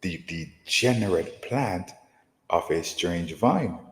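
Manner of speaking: slow, solemn King James reading; scripture reading. Acted. Teacher reading Jeremiah to his listeners, slow and solemn. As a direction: draw each phrase out like holy writ. Reads Jeremiah verse aloud.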